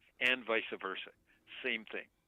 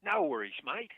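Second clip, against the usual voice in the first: broad, louder Aussie accent, pitched up; Australian accent; 6 semitones higher, 6 dB louder than usual. Shown as a demonstration. Talking Australian to listeners in the chat, in an Australian accent. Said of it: "I'll talk Australian to them".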